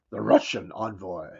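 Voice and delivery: deep voice. Shown as a demonstration. Host demoing a deep voice for "The Russian envoy". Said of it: "You gotta say that with a deep voice".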